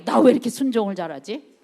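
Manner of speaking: a touch of wonder at your own obedience, rising at the end; mildly surprised at oneself. Shown as a demonstration. Preacher showing the congregation how to be amazed at themselves, mildly surprised. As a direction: marvel lightly at yourself, as if catching yourself doing well. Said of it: "좀 깜짝 놀라요, 스스로에게".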